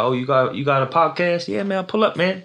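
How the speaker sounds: high, hyped New York hustler voice; playing an eager Harlem rapper inviting you over; New York accent. Imitating a New York rapper inviting him to Harlem, hyped. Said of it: "Whereas Americans be like".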